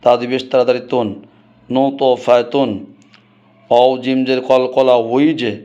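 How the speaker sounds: measured Qur'anic spelling recitation; spelling drill. Shown as a demonstration. Teacher spells out Qur'anic words for students, drill recitation. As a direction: recite each syllable in an even, practised rhythm.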